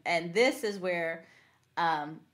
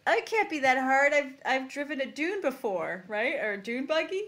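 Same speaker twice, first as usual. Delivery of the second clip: mock cocky kid; 3 semitones higher than usual. Kid voiced boasting.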